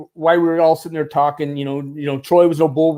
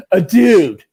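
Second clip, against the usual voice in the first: loud, drawn-out dude talk; emphatic impression of a friend; Max; 4 semitones higher, 5 dB louder, slower than usual. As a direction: imitate a buddy pleading for help, pitched up. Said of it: "And this is how Max talks".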